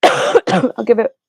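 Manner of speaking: normal talking voice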